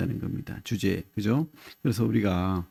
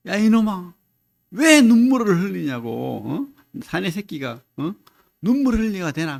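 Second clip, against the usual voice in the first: mock angry scolding, pitched up; retold angry father; 5 semitones higher than usual. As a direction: play a father telling off his son, voice raised high. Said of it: "소리를 지르고 화를 내면서". (화내며 혼내는 아버지 흉내)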